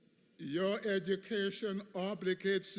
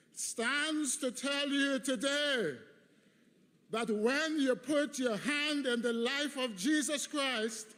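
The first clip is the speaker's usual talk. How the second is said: preaching climax; 6 semitones higher than usual. Acted. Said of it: "I say to my students".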